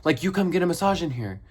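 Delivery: hammed-up angry salon owner calling out the door; high mock yell of an outraged shop owner; shouting owner. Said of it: "she goes out, and she was like".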